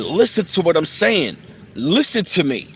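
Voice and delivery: a light imitation of an insistent rapper's delivery. Fan imitating the late rapper's delivery, mildly insistent. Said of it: "his delivery was him saying".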